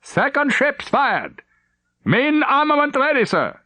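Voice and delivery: high urgent battle report. Acted. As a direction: bark the report over gunfire. Gunnery officer reports in battle.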